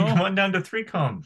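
high, playful Australian invitation; mock Australian accent. Co-host joins stadium joke, mock Australian accent.

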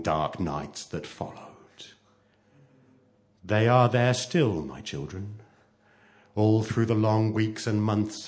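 dramatic storytelling, surging then settling; story narration. A narrator's reading. Narrator telling of children fleeing to forest, dramatic. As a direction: read the climax with suspense and weight. Reads story climax aloud.

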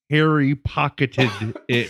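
"Harry pocketed it" spaced out carefully; measured, separated words on "Harry pocketed it"; slowed beat. Retold or imitated. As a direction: deliver "Harry pocketed it" one careful word at a time. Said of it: "his beat slows down so he can get".

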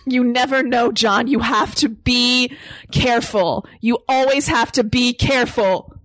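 mildly hammed-up stern mother; stern Sarah Connor. Sarah warning John to be careful, mock stern scolding. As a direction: drive each warning home, lightly scolding. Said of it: "stop yelling at me".

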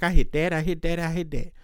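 lightly voiced woman bragging, repeated; a hint of a boastful woman echoing the men; mock bragging woman. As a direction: brag it like the woman does. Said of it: "the women can be like".

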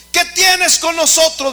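high, loud demon cry; demon screaming. Acted. Preacher repeating the demons' cry to the church, loud high shriek. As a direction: shriek the question again like the possessed.

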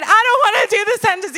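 a touch of a whining son; whiny child. Retold or imitated. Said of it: "He's crying".

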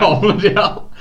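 high, loud laugh through the words; laughing exclamation. Retold or imitated. Retelling her shock at her dad's story, laughing hard. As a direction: splutter it out mid-laugh.

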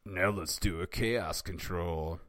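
put-on cartoon villain; hammed-up villain command; Eggman's villain voice. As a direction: announce it like a mock evil genius. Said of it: "and said".

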